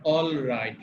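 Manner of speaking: "অলরাইট" with the L fully sounded; full L pronunciation. Shown as a demonstration. Teacher showing how Indians say it, "অলরাইট" with full L. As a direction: say "অলরাইট" with a complete, clear L. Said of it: "এলটাকে পুরোপুরি উচ্চারণ করি".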